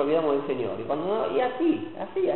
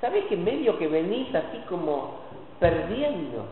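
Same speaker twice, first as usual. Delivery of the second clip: softer, confidential "Che, Moisésito"; a hint of a friend breaking bad news gently to Moses; confiding aside; 7 dB quieter than usual. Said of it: "Pero un día dice".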